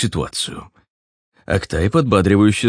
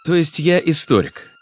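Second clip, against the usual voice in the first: higher, quick retort; parry the remark; 9 semitones higher than usual. Acted. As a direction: Ruslan retorts to the rattly guest. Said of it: "парировал Руслан".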